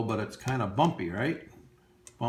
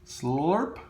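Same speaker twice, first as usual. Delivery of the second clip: slurp sound; 4 semitones higher than usual. Shown as a demonstration. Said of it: "Words that are spelled like they sound".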